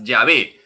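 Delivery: Yahvé said as ya-VEH, stress on the last syllable; correct pronunciation. Shown as a demonstration. Preacher correcting the congregation's pronunciation, said clearly. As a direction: clearly say Yahvé, not Jehová, ending on VÉ. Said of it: "así se pronuncian las cuatro letras sagradas".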